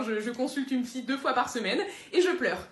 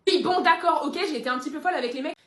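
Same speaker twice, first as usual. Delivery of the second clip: loud admission; 3 semitones higher, 6 dB louder than usual. Acted.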